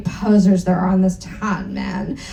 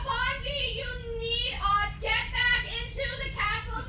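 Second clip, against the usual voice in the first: hammed-up worry; 11 semitones higher, 10 dB quieter, faster than usual. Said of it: "looking worried".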